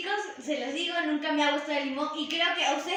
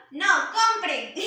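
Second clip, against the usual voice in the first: laughing tease; 3 semitones higher, 4 dB louder, slower than usual. Real, not acted. Teasing viewers.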